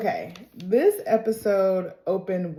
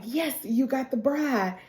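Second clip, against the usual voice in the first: higher-pitched imitation of a pleased stepmother; mock delight; 6 semitones higher than usual. Stepmother congratulates Agnes on the bride, mock delighted. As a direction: play the excited stepmother. Voices stepmother cheering the find.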